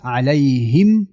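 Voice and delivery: slow علیهم closing on a plainly sounded m; clear m. Shown as a demonstration. Teacher showing izhar in علیهم, slow clear m. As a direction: finish علیهم with lips closed on a distinct m. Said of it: "اظهار شفوی است".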